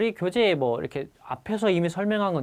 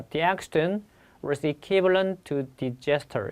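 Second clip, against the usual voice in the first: slow dictation; much slower than usual. Shown as a demonstration. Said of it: "그 사고는 거의 재난에 맞먹는 것이었어".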